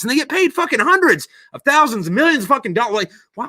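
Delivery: rising into a hammed-up tirade against paid news hosts; building mock rant. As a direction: rail at the camera like a TV ranter. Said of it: "that's my fucking rant".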